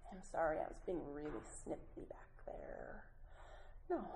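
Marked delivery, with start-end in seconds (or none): 0.1-3.0 whispered example of the vague apology; hushed wrong example. Shown as a demonstration. Speaker whispers the vague apology she says not to use. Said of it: "So try not to say things like".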